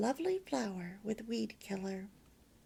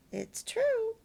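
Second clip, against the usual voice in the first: smiling; 11 semitones higher than usual. Acted. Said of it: "smiled the teacher".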